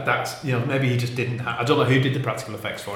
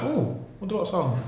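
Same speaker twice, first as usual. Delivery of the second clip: playful Michael Myers; 9 semitones higher than usual. Retold or imitated. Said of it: "going like".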